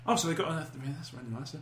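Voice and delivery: lightly voiced giddy nerd; excitable nerd voice. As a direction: gush like a geek over a book. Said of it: "the speaker's excitable nerd voice".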